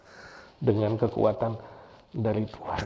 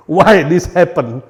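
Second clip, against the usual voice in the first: mock why; 9 dB louder, slower than usual. Mock question to God.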